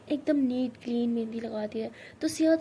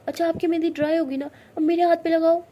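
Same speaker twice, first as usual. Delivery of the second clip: higher, louder cheerful push; bright eager request; 5 semitones higher, 9 dB louder than usual. Acted. Siya distracting angry Tara, eager and loud. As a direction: lift the mood eagerly.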